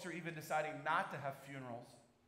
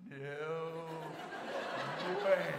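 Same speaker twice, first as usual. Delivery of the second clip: shocked disbelief; 5 dB louder than usual. Retold or imitated. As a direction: let it burst out in disbelief. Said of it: "I'm like".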